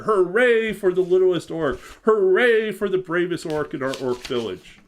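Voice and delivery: loud cheering hooray; crowd cheer. Acted. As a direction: shout it out with the village crowd. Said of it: "they all shouted".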